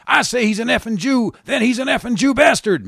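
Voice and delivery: high, loud screamed insult; screaming. Acted. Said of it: "she's screaming now".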